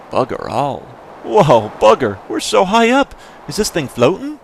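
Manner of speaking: hammed-up Scottish brogue on a game character's lines; Scottish accent. Reading Kid's lines aloud in a Scottish accent.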